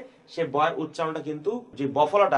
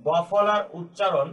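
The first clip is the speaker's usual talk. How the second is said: slow dictation; slower than usual. Shown as a demonstration. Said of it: "একইভাবে আমি লিখতে পারি".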